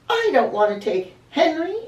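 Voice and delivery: loud, high, furious outburst. Acted. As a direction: shout it in a rage. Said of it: "Angelina was furious".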